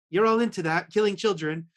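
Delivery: put-on a weak stab at a British accent; bad British accent. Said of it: "I can again do a bad British accent".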